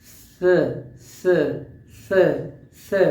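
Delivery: hissed स with tongue between teeth; drawn-out isolated स; demo s sound. Shown as a demonstration. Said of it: "For example".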